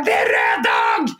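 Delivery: low, slow, bellowed mock telling-off; mock angry yell. Woman recalling yelling at the leaf-blower man, low bellow. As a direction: boom out a mock scolding at the neighbour. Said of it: "jag blev så irriterad på den här gubben som gick och bara".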